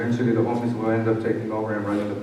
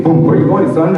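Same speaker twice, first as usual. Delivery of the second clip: high, loud call across the street; 7 semitones higher, 7 dB louder than usual. Retold or imitated. Priest running out to call back a passing man, loud call. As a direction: call him back as he walks by. Father Greg calling out.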